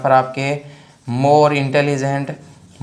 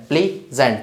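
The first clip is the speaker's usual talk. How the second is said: प्लीजेंट as प्ली, short stop, जेंट; syllable split. Shown as a demonstration. Teacher repeating for students, प्ली-जेंट in two chunks. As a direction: put a small break inside प्लीजेंट before जेंट. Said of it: "थोड़ा सा इसमें stop आता है बीच में".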